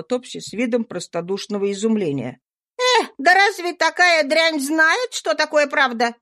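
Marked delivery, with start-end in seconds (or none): 2.8-6.1 indignant. A narrator's reading. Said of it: "сказала Роза с негодованием".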